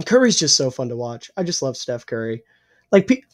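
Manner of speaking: losing his voice, hoarse; rough, strained voice. Real, not acted. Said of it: "I'm losing my voice completely".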